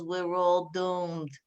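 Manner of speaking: slow, doom-laden mock voice of a gloomy sister; imitating her gloomy sister asking about Facebook. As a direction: drag it out like the world is ending. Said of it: "She goes".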